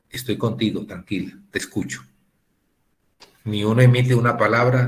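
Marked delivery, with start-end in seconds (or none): 0.1-2.1 soft, fading to a breathy whisper; soothing comfort. Shown as a demonstration. Counselor comforting a mourner, soft and tender. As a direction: comfort a grieving person gently. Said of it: "La mejor terapia que a veces uno espera es".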